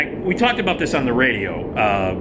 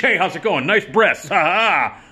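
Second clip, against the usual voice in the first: leering mock greeting; 4 semitones higher than usual. Old comic leering at a woman offstage, cheesy. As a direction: toss it off like a dirty old comic.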